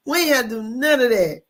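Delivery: chuckling through the words; laughing. Real, not acted. Telling a friend about grandma, laughing. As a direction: laugh while you say it, amused.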